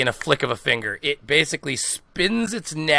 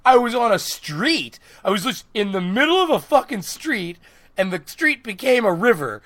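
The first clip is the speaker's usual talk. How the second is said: indignant protest; 5 semitones higher than usual. Retold or imitated. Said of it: "I'm like".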